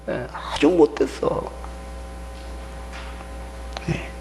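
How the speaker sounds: ordinary delivery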